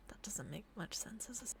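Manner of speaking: muttered whisper to herself; whispered aside. Real, not acted. Narrator whispering a joke aside. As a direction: drop to a whisper.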